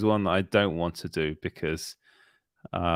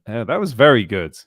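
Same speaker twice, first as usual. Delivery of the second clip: loud mock praise; 7 dB louder than usual. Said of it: "everyone went".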